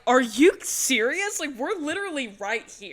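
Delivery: high-pitched disbelief, stretched out; mock indignant. Retold outrage of ignored moms.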